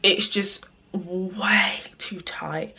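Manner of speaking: quiet whispered aside; whispering. Real, not acted. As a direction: breathe it under your breath. Quiet aside about tight shoes.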